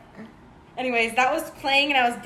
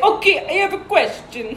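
put-on higher, louder botched Swedish accent that lands French; mock Swedish accent; 6 semitones higher, 5 dB louder than usual. Friend retelling a man's bar question, hammed-up Swedish accent. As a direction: imitate a Swedish guy, badly. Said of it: "So he's French now".

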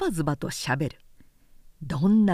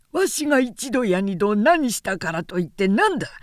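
put-on louder, pressing old retainer; stern angry retort; 3 dB louder than usual. Old retainer firing back at Harada, raised and stern. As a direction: push back hard, voice raised.

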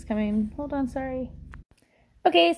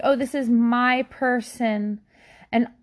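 high, gushing, possessive delight; cutesy doting mom; 5 semitones higher than usual. Retold or imitated. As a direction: gush over your little project. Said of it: "we just think".

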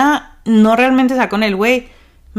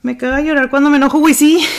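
emphatic agreement; 5 semitones higher, 5 dB louder, faster than usual. Real, not acted. Reading viewer comment emphatically.

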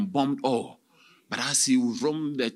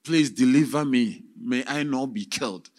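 earnest prayer; 3 dB louder than usual. Acted. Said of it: "And he prayed earnestly".

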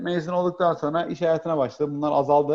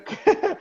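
short high laugh at himself; a quick sheepish laugh, pitch jumping; embarrassed laugh. Real, not acted. Guest laughing at forgetting the play's name, sheepish.

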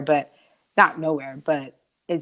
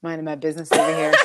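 laughing; faster than usual. Real, not acted. Teasing while sipping wine.

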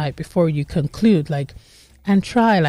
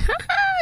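short, very high real giggle; a quick squeak of a laugh; 3 dB quieter than usual. Real, not acted. Laughing at playful scene.

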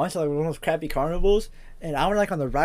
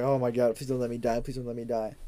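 mock scared prayer; 4 semitones lower, 6 dB quieter than usual. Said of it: "I was like".

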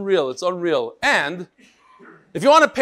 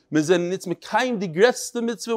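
Litvish Yiddish; 2 semitones higher than usual. Retold or imitated. Rabbi reads a martyr's last words to his class, Litvish Yiddish. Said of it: "in the Litvish Yiddish".

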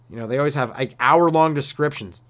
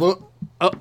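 mock drunk, wobbling on one leg; drunken stumbling; 2 semitones lower than usual. Drunk hopping home on one leg, hammed-up stumbling. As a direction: exclaim as if losing your balance. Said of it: "you just fucking stumble around".

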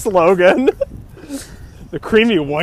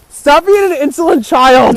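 mock scolding; 6 semitones higher, 6 dB louder than usual.

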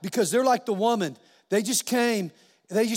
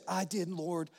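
small, soft, lowered voice; meek; 4 semitones lower, 10 dB quieter, slower than usual. Retold or imitated. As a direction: imitate a timid woman owning up quietly. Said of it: "she very meekly said".

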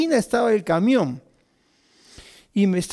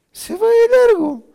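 even higher, loud, laughing through it; 8 dB louder than usual. Real, not acted. Repeating it again to listeners, laughing hard. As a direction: push it out between laughs.

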